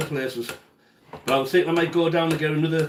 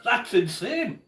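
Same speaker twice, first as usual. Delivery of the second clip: laughing; 6 semitones higher, slower than usual. Real, not acted. Laughing at a high price.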